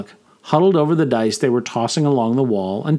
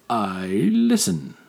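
slow, heavy brute's drawl; slowly; 3 dB quieter, much slower than usual. Acted. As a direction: take your time, weighty and slow. Orag voiced.

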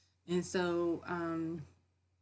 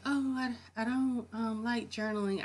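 higher-pitched mock reluctant voice; imitating reluctant people; 5 semitones higher than usual. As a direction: put on a lightly whiny objector, pitched up. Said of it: "I know people sometimes like".

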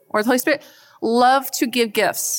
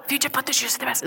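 much softer, fast tired mutter; muttered aside; 3 semitones higher, 6 dB quieter, much faster than usual. Retold or imitated. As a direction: mutter it under your breath, rushed. Mom trailing off, fed up.

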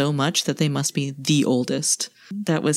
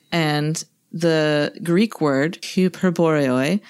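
Greek accent; much slower than usual. Shown as a demonstration. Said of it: "I'm laughing at your Greek accent".

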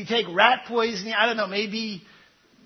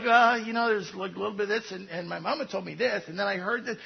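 mumbled and softer, rushed and unsure; confused believer; 3 semitones lower, 6 dB quieter, faster than usual. Retold or imitated. Preacher imitating a confused churchgoer, quick soft mumble. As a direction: mumble it fast like someone unsure of their faith. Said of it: "people are like".

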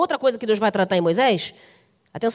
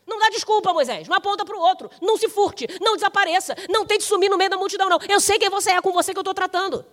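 insistent admonishing; 6 semitones higher than usual. Acted. God pressing Moses, no excuses.

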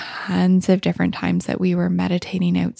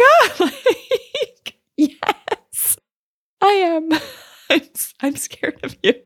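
high squeal breaking into laughter; laughing scared; 10 semitones higher, slower than usual. Retold or imitated. Answering the big spider, laughing and high. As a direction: admit the fear while laughing.

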